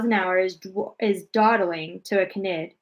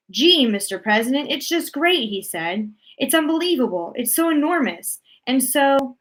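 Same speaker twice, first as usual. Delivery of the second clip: eager astronaut on radio; 2 semitones higher than usual. Acted. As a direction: sell the wonder to the president over the radio. Shuckworth reports over the radio.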